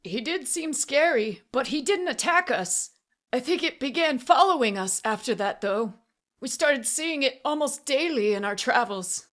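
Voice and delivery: high, pleading account; anxious confession. A narrator's reading. Auctioneer explaining how it followed them, anxious. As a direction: justify it nervously as you tell it. Frightened man confesses while held.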